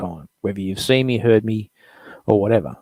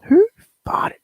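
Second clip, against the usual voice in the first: breathy secret whisper of the title; 7 dB louder than usual. Acted. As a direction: murmur it like a naughty secret. Repeating the segment title.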